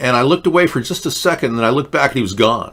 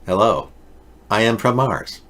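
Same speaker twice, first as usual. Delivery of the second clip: lightly voiced robotic Martian; a hint of a mannequin-faced alien; Martian guy impression; 2 semitones lower than usual. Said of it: "kind of like this".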